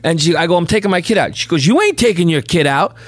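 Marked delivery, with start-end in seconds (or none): 0.6-1.3 raised-pitch retold insistence; defiant father. Father tells nurse he's taking his baby, retold defiance. 1.7-2.9 imitated higher-pitched refusal; objecting nurse. Nurse blocks father from leaving with baby, imitated objection.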